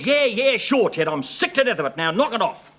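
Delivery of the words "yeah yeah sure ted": mocking imitation. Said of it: "Everybody says".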